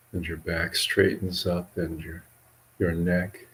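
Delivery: measured meditation guidance with long pauses; guided meditation. Acted. Monk leading livestream listeners and yogis in relaxation, guided meditation. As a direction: guide listeners unhurriedly, leaving long silences between phrases.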